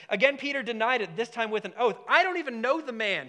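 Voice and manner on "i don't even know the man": higher, mildly raised protest; voice raising slightly. Acted. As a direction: act out a denial getting louder. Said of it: "His voice is raising a little bit".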